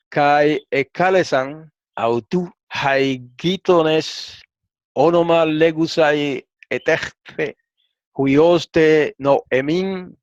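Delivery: slow, careful reading of the Greek verse; a teacher slowly reading the Greek text to the class; slow Greek recitation. Shown as a demonstration. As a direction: recite the Greek word by word, unhurried. Reads Greek transliteration aloud.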